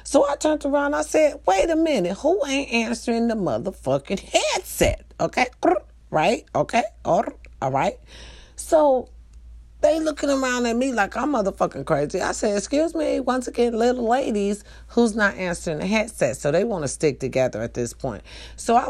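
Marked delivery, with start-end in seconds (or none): 1.4-5.0 retold confrontation. 12.6-16.4 retold scolding.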